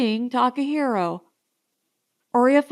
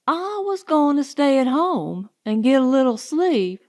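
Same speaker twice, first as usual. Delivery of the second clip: tossing the blame back at her; a touch of sulky temper; 4 semitones higher, 4 dB louder than usual. Acted. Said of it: "she turned on me in a temper".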